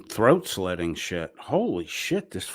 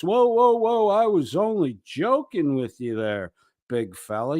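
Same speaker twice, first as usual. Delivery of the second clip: mock backpedalling; 4 semitones higher than usual. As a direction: pretend to laugh it off and calm the big guy down. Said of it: "your instant reaction is always".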